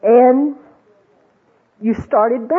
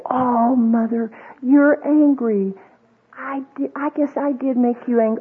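mock groveling apology; 3 dB quieter than usual. Jesus voiced as over-apologetic.

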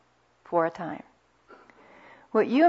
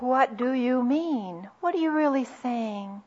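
gentle asking; 4 semitones higher, 3 dB quieter than usual. Shown as a demonstration. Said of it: "where we can ask".

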